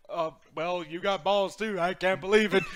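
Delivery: imitating a mildly stunned wrestler; taken aback. Retelling Stone Cold's reaction, mock taken-aback. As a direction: play it as grudging disbelief, breaking into laughter. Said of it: "Stone Cold was kinda taken aback".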